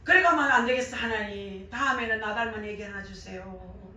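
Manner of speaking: ordinary talk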